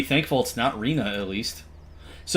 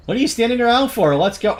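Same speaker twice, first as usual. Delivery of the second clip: put-on high girl voice; 9 semitones higher, 5 dB louder than usual. Voicing a female character.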